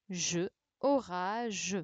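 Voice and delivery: "Je, orage" said slowly, syllable then word; slow syllable demo. Shown as a demonstration. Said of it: "syllabe puis mot, lentement". (« Je, orage » dit lentement, syllabe puis mot)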